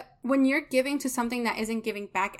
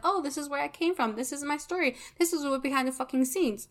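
mocking successful coaches; 3 semitones higher than usual. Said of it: "Do they really start talking about".

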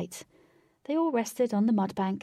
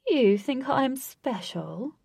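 slow purring cat voice; 6 semitones higher, 4 dB louder, much slower than usual. Acted. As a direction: purr it out slowly like a cat. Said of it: "Blue said with a purr".

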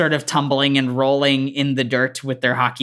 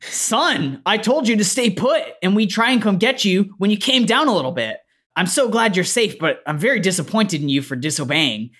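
stern, hammy video-game dad; generic game dad; 5 semitones higher than usual. Acted. Dad scolds son for disobeying, hammy and stern. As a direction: scold like a stock game dad, pitch swooping up. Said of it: "it sounds like a dad voice from a video game".

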